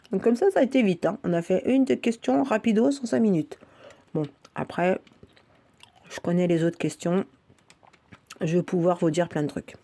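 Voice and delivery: talking with a mouth full of mint. Real, not acted. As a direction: mouth full, chewing a mentos. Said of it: "je parle la bouche pleine".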